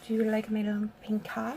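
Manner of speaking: playful fake French accent, understated; mock French accent. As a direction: introduce yourself as a French Strawberry Shortcake. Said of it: "and I am French".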